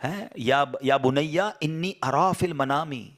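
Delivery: slow chanted Arabic verse; Quranic recitation. Acted. Preacher reciting the Quran to the congregation, slow and chanted.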